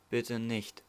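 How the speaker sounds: soft, hushed plea; whispered. A narrator's reading. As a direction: breathe the words under your breath. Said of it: "flüsterte sie".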